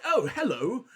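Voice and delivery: mock posh British greeting; British nobility accent. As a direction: imitate a British noble voice actor. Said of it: "And in the English V A, it's like".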